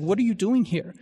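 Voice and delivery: a retold vineyard owner's lightly acted annoyance; upset owner. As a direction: scold the idle laborers, building up. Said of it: "he's upset".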